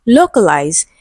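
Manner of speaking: "localize" with the weight on LO; stress on first syllable. Shown as a demonstration. Teacher reads the option to students, "localize" stressed on LO. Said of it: "stressed on the first syllable".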